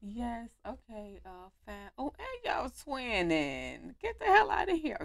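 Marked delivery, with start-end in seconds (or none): 4.0-5.0 higher, louder playful outrage; excited disbelief. Real, not acted. Gamer amazed the girls are twinning. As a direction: exclaim in happy disbelief.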